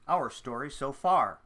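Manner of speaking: lively previously-on recap; fun recap voice. Acted. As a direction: read it like a playful TV recap. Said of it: "in your fun recap voice".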